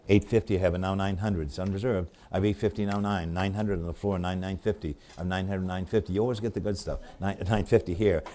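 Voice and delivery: rapid rhythmic run of bid numbers; auctioneer bid calling. Acted. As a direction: keep the bids rolling like an auctioneer.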